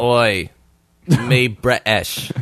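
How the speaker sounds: half-hearted, slow caveman British; mock British accent. Reluctant friend half-assing it on request, crude British accent. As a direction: badly fake a British accent in two blunt bursts. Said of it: "let's hear your British accent".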